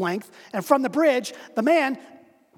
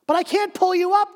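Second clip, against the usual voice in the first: high, loud desperate cry; 8 semitones higher, 5 dB louder than usual. Acted. Man on bridge cries out he can't pull him up. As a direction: cry out in despair. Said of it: "the man cried".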